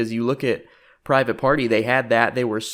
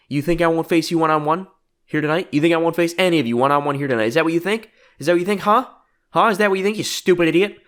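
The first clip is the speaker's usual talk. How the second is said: higher, insistent mock outrage with rising questions; indignant taunting; 5 semitones higher, 4 dB louder, faster than usual. Jericho answers Cody's challenge, indignant mock taunting. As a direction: badger your rival in a hammed-up promo. Acted indignant retort in wrestling promo.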